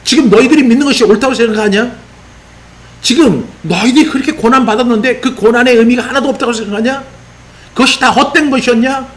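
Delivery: 흥분한 추궁. Acted. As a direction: fire off indignant questions like an agitated apostle. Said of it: "굉장히 흥분한 어조로 수많은 물음표를 던지면서". (흥분해서 따져 묻는 높은 어조)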